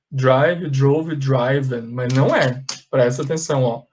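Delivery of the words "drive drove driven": "driven" said as "draiven", with the long i of drive; wrong pronunciation. Shown as a demonstration. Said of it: "Tem gente que fala assim". (pronúncia errada de "driven" como "dráiven")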